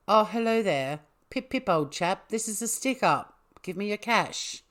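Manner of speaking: put-on a polite British robber, in a so-so English accent; posh English accent. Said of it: "I could normally do quite a good English accent".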